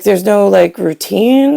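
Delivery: retold mild disbelief, rising at the end; mock astonishment, questioning lift on the last word; blown away. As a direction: quote someone mildly incredulous. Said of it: "totally blown away".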